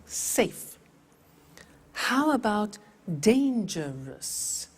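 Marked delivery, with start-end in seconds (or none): 0.1-0.8 Safe whispered as one beat; whispered model. Shown as a demonstration. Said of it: "is one syllable". 3.2-4.7 dangerous drawn out very slowly in beats; slow syllables. Shown as a demonstration. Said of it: "How many?".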